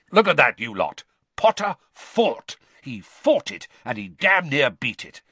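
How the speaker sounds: loud gruff drill instructor; Moody. Acted. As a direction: bark it to the whole class. Moody praises Potter to class.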